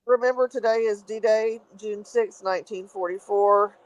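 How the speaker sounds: drowsy, sleepy voice; half asleep, words heavy; nodding off. Real, not acted. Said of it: "I'm falling asleep".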